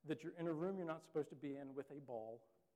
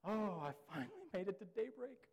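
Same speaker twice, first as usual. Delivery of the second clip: relieved laugh; 5 semitones higher, 4 dB louder than usual. Retold or imitated. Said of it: "something inside of you that's like".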